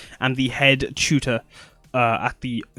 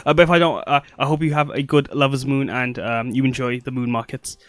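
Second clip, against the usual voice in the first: eager, bright-voiced character farewell; excited character voice; 3 semitones higher than usual. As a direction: gush your thanks and rush off.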